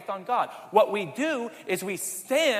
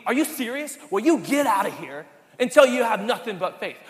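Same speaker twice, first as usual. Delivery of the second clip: loud, indignant rebuke; imagined scolding; 7 dB louder than usual. Pretend. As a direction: scold the doubter, sharp and loud. Harsh imagined Jesus scolding doubter.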